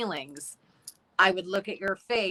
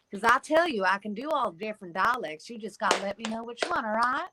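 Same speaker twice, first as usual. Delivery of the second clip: Southern accent. Shown as a demonstration. Still demonstrating her Southern accent.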